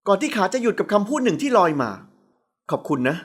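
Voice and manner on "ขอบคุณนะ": lower, soft and very slow; a tender thank-you from long ago; warm thanks. A narrator's reading. CEO thanking her tenderly, lower, soft and slow. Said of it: "เสียงนั้นเต็มไปด้วยความอบอุ่น".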